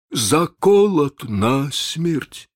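very slow, shaken pirate. Acted. Chako reports the death, slow and shaken. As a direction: drag out the grim news. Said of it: "отвечал глухо Чако".

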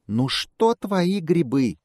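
high, slow squeaky squirrel. Acted. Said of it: "пищит белка".

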